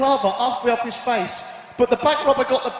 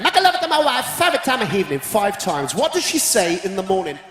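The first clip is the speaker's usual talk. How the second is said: put-on Italian accent; 4 semitones higher than usual. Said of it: "No, it's Italian".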